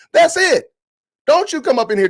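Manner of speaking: high, loud exasperated snap; exasperated outburst. Real, not acted. Vlogger fed up with a commenter, high and loud. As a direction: cut it off, fed up.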